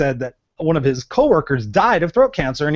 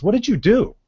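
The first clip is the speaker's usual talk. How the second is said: amazed doctor; 6 semitones higher than usual. Retold or imitated. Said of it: "with the straightest face".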